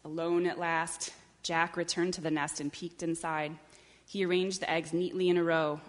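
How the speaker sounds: measured picture-book reading; story narration. A narrator's reading. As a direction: read it unhurriedly to young children. Reads a picture book aloud.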